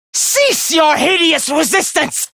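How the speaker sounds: high, forceful villainous shout; angry command. Acted. Villain ordering foes to cease resisting, angry shout. Villain berates opponents in battle.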